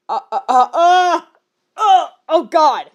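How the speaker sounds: helpless giggling groan; laughing despair. Real, not acted. Reader losing it over the fanfic, laughing groan. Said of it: "cracking up at the fic".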